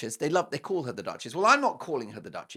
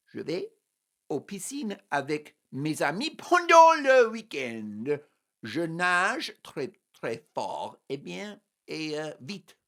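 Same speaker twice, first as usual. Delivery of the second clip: French; slower than usual. Shown as a demonstration. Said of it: "that's why I speak so much French".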